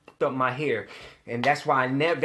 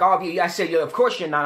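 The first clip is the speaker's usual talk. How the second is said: sarcastic; 3 semitones higher, 5 dB louder than usual. Retold or imitated. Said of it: "I'm pissed off at him".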